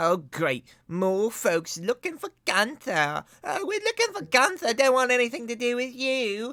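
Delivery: sarcastic put-on grumbling. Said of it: "And she says".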